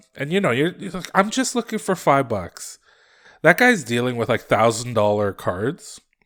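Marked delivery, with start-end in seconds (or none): 1.2-2.8 sweet, high, sing-song put-on little-kid voice. Acting out a child asking a busy dealer to buy cards: imitating a cute little kid. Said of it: "this cute little kid".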